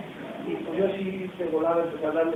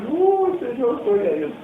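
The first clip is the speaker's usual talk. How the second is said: joyful exclamation; 6 semitones higher, 3 dB louder than usual. Retold or imitated.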